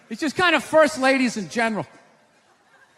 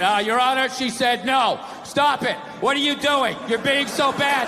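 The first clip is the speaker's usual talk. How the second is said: flat deadpan courtroom read of stop it; monotone legal reading; bad read. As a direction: read it like a bored clerk. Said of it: "you get a bad read".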